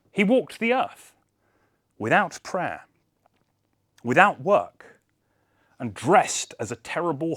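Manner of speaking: rising excitement. A narrator's reading. Narrator builds up the horror.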